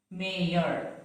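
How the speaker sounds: mayor as "MAY-yor", Y sounded; mayor split into may-yer; wrong pronunciation. Shown as a demonstration. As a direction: pronounce the Y in mayor, two syllables. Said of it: "It is not".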